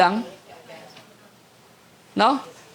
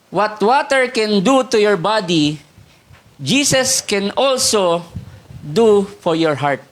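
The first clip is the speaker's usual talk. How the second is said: slow emphatic quote; slower than usual. Real, not acted. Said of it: "slow emphatic quote".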